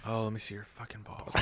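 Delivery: soft, playful mock seduction; hushed pretend dirty talk; mock bedroom talk.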